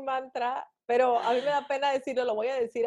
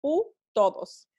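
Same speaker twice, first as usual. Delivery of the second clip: half-said mantra; 2 semitones lower, slower than usual. Shown as a demonstration. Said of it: "pero es".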